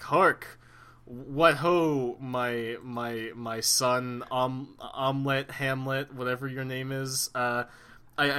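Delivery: lightly hammy Shakespearean ghost; a hint of a pompous stage ghost; Hamlet's dad. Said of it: "my impression of Hamlet's dad".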